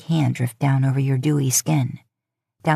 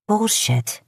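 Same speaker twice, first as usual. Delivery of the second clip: flat accusation; 5 semitones higher than usual. Acted. Sam calls him out.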